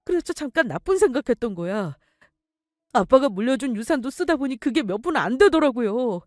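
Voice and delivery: pleading son. Acted. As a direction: son begs his mother for money. Son begs mother for help. (아들이 애원하듯 매달리며)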